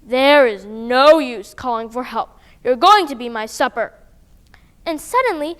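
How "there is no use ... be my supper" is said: mildly voiced roaring dragon. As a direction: growl it like a hungry dragon. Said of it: "The dragon was roaring".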